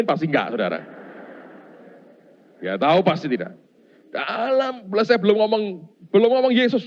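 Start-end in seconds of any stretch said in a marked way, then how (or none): 4.1-6.8 high and loud, charged; preacher rebuking the spirit; fervent command. Retold or imitated. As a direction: preach it hard. Retold command, building.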